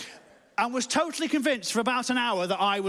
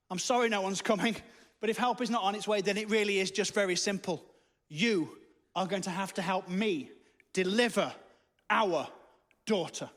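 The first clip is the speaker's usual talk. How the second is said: firm and deliberate. Acted. Wife spelling out the plan.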